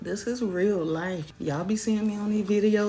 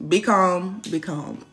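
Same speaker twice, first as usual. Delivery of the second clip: loud self-reminder; 7 dB louder, slower than usual. Shown as a demonstration.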